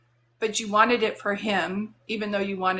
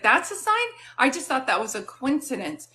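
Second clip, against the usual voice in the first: surprised question; 3 semitones higher than usual. Retold or imitated. Friend realising the dog's name matches, surprised. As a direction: act out a friend caught off guard.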